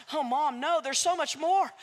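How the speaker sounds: high, loud, eager insistence; eager Jack. Acted. Jack to his mother, planning to return, rising eagerness. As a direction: push it out, too excited to stop.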